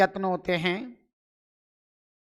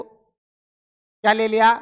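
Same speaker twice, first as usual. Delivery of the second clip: slow teacher question; much slower than usual. Shown as a demonstration. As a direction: ask it slowly, stretching each word. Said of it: "समझना इसको". (धीरे-धीरे खींचकर पूछा गया सवाल)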